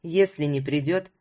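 low, mildly defiant inner voice; Ruslan's irritated thoughts. Acted.

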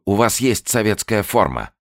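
high, loud urging. Acted. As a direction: press him.

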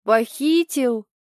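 slow, incredulous "Похитил?" with falling tune; mock astonishment; surprised question. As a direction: drag out "Похитил?" in disbelief. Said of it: "Толик изумлённо изогнул брови".

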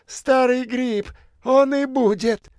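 высоко и громче, медленно; выплюнь оскорбление; злая бомжиха. A narrator's reading. Бомжиха ругает профессора. (бомжиха обзывает профессора, зло)

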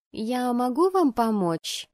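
high, slow, hesitant question; shy, drawn-out inquiry; timid secretary. Acted. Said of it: "робко поинтересовалась секретарша".

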